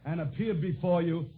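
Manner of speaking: earnest, measured tribute without the clowning; sincere introduction. Real, not acted. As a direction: drop the comic mask and speak as a proud father. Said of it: "permit me to drop my comic mask".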